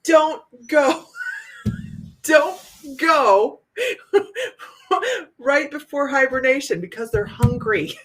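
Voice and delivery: laughing cry through the warning. Real, not acted. Warning friends about hungry bears, laughing hard. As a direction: warn them while cracking up.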